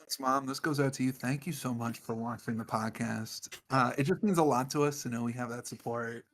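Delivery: lightly murmured ASMR thank-you. Pretend. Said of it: "Some Isaac A S M R".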